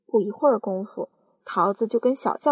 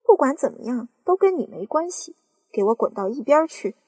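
angry aunt; 4 semitones higher, 5 dB louder than usual. Acted. Aunt scolding boy.

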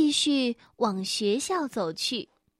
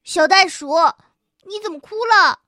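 concerned classmates; 6 semitones higher, 8 dB louder than usual. Acted. Classmates ask why crying.

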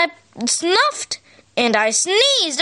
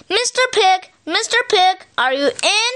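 calling out; 4 semitones higher than usual. Retold or imitated. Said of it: "I called".

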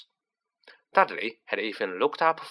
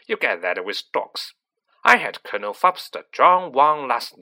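lightly voiced scornful aunt, louder on the insults; 5 dB louder than usual. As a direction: disparage the boy as a haughty aunt. Voices Aunt March insulting Harry.

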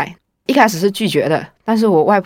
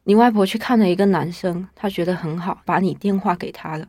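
imitating mom's resigned, much softer voice; helpless tone; 4 dB quieter than usual. Mom reporting grandma's meddling, resigned and helpless. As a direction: let it sag, powerless to stop grandma. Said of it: "我妈就很无奈的语气说".

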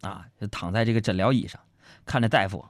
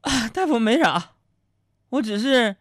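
high, halting hammed-up patient voice; patient composing himself; 11 semitones higher, 3 dB louder than usual. Patient to dentist after crying, mock composure. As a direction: explain yourself between long pauses. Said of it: "冷静的说".

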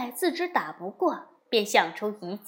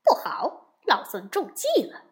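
alarmed cry; 3 semitones higher than usual. Acted. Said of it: "悟空叫道".

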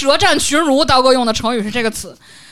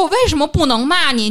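raised-pitch argumentative comeback; retold angry retort; 5 semitones higher, 4 dB louder than usual. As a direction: fire back a challenge, re-enacting a row. Acted quarrel, retort.

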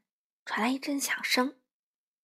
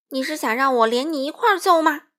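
loud, higher menacing question; fierce threat; 4 semitones higher, 8 dB louder than usual. A narrator's reading. Wolf turning on the little friend, fierce. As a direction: threaten a beating. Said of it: "帅狼凶巴巴地说着".

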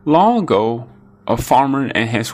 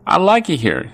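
small ant voice; 8 semitones higher than usual. A narrator's reading. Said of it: "said ant".

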